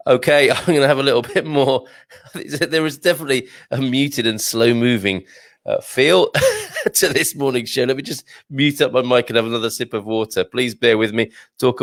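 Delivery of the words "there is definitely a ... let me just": real laugh breaking up the sentence; amused laughter. Real, not acted. Host admitting to listeners the show is sluggish, laughing.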